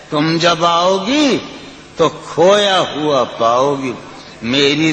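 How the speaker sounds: lilting, sung-through recitation of a ghazal; poetry recitation. Acted. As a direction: recite it like at a mushaira. Recites the poem again.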